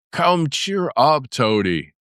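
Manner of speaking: slow, high coaxing Badger; a hint of a cheering old Badger. A narrator's reading. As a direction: Badger comforting Toad. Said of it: "said the Badger".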